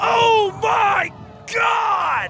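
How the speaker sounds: excited, thrilled shout, loud, high and drawn out.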